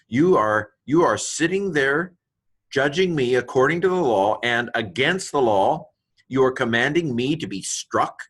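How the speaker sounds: Paul rebuking the high priest for ordering the slap, indignant; indignant accusation. Acted. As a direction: hurl the charge back at the judge. Acts out Paul's indignant retort.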